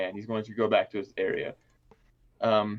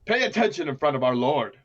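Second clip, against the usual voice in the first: devil guard; 3 semitones higher, 4 dB louder than usual. Acted. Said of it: "He's gonna say".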